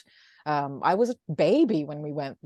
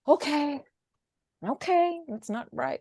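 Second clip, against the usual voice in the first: sarcastic okay; 10 semitones higher than usual. Retold or imitated. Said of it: "I'm like".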